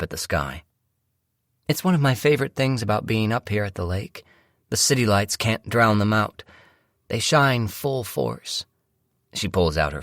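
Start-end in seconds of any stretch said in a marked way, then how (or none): 1.7-8.7 higher-pitched voice for the wife; light, raised female-character voice, admiring; starry-eyed wife. Acted. Wife admiring the stars to her husband, starry-eyed. Wife's voice in story narration.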